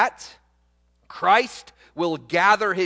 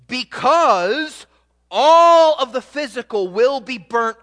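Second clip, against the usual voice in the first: amazed exclamation; 3 semitones higher, 5 dB louder than usual. Shown as a demonstration. Preacher reading the verse aloud to the congregation, amazed. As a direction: read it as a proclamation of wonder. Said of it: "you could read it like this".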